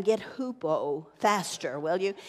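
playful mock scold to grandkids. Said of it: "I wanted to say to them".

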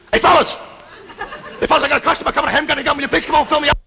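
high, frantic holler for help; rising alarm, pitched high throughout; panicked calling. Acted. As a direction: call out desperately as trouble approaches. Customer coming, machine is empty.

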